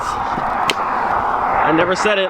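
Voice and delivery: breathy hushed whisper, very slow; whispered slowly to himself in disbelief. Real, not acted. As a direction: drop to a whisper as it sinks in. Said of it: "I just realized".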